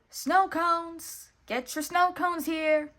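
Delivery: high, loud goofy vendor calls; Goofy shouting. A narrator's reading. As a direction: bellow out snow cones, slowly at the end. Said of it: "his friend Goofy shouted".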